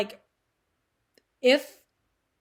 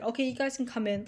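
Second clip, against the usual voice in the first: gentle mock; 5 dB quieter than usual. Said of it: "a thing where it's just like".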